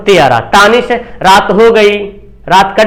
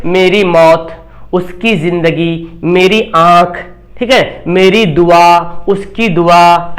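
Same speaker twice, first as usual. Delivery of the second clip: slow example words; 4 semitones lower, much slower than usual. Shown as a demonstration. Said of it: "की लगा रहेगा".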